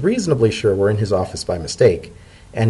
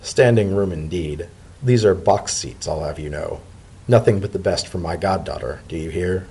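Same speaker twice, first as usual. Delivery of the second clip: smug; 3 semitones lower than usual. Acted. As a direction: savour the boast. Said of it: "insufferably smug".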